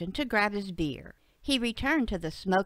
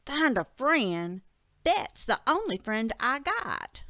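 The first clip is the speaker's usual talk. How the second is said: moaning complaint; 4 semitones higher than usual. Acted. Bud complains about being sent away, mildly moaning. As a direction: moan it like a wronged friend. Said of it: "Bud moaned".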